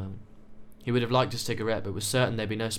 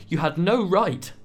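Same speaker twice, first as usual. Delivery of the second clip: loud, slow, higher-pitched accusation; angry outburst; 8 semitones higher, 7 dB louder, slower than usual. A narrator's reading. Young man accusing his friend of betrayal, slow and furious. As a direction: hammer each word at him in fury. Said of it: "Jessie addressed Finn hotly".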